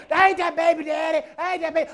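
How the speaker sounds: shouting mock denial; loud mock protest on a talk show; mock Maury guest. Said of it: "They come out and say".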